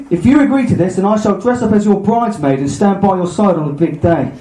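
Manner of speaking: theatrical, hammed-up trickster speech; scheming Loki. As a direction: persuade Thor with grand storybook flourish. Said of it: "doing this podcast with Del Boy".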